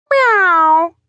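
high, drawn-out meow; cat meow. A narrator's reading. The cat Lord Hugh answers Morris, high meow. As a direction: mew like a cat.

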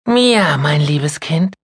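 high, warm greeting call; loving grandma. Acted. Grandma greeting her granddaughter, loving. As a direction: open your arms with your voice.

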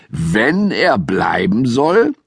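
Wenn punched, question rising; stress on Wenn. A narrator's reading. Family interrupting father, stressing Wenn in disbelief. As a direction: lean on the word Wenn in disbelief. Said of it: "fielen ihm alle ins Wort".

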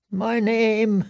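high, frightened falter; choked with fear. A narrator's reading. Prisoner trying to recall his name, choked with fear. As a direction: break off in high-pitched dread. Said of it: "a scream caught in his throat".

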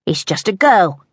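mildly scornful thug; understated male contempt; scoffing. A narrator's reading. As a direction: dismiss the threat with a scoff. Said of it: "one scoffed".

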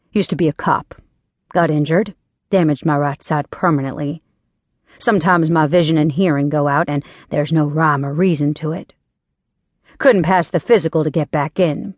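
lightly emotionless, matter-of-fact delivery; no emotion. Acted. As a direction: state it without any feeling. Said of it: "he replied with absolutely no emotion".

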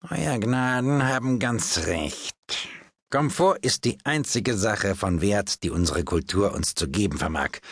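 the palmist flattering her grace; unctuous palmist. Acted. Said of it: "sagte Herr Podgers".

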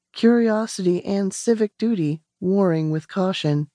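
ordinary delivery, nothing marked

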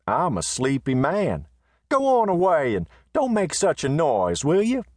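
lazy but firm; Riata, drowsy, waving him off; sleepy man. Acted. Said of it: "said Riata".

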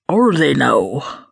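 slow, suggestive question; intrigued. Acted. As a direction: draw it out with interest. Bloke suddenly interested.

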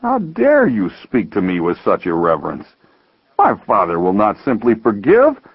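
high, agitated self-reproach; worked-up, high-pitched confession; indignant outburst. Acted. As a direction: protest in rising, anguished indignation. Indignant brother confesses great sin.

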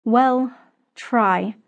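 mildly tender encouragement; warmth. A narrator's reading. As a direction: let warmth into the voice. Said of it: "this time allowing warmth to enter her voice".

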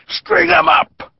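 high, slow call from the crowd; bay for a hanging. A narrator's reading. Man in the mob calling out for a lynching, high and slow. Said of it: "a man called".

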